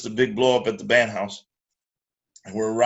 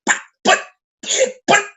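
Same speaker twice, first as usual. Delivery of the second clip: stammering to get a word in. Retold or imitated. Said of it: "He was like".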